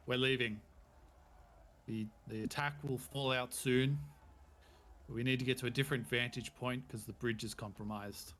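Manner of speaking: loud barked orders; commanding captain. Acted. The captain orders his men to leave the fort, loud command. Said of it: "he comes out and he goes".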